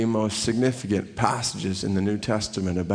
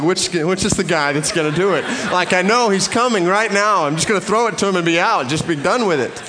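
high, loud, jittery inner panic; hammed-up dread of a mugger; mock panic; 7 semitones higher, 4 dB louder than usual. Nervous fiancé eyeing the crowd for a thief, mock panic. His panicked thoughts, retold.

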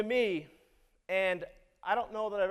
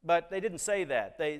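normal talking voice

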